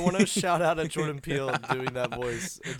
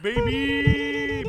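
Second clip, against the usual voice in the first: excited shout; 11 semitones higher, 7 dB louder than usual. Real, not acted. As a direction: hype shout, high and loud. Celebrating thousand downloads.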